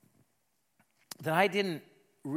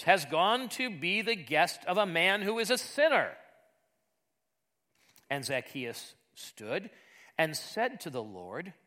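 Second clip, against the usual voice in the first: measured, emphatic pulpit reading, slowing on key phrases; Scripture reading; 4 semitones higher than usual. A narrator's reading. Preacher reading Jesus and Zacchaeus to the congregation, deliberate Scripture reading. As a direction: read the Gospel aloud with deliberate weight.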